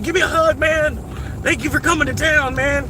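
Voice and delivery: high, loud, gushing mock local; friendly Kentucky local. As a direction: ham up an overfriendly hillbilly welcome. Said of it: "and they'll be like".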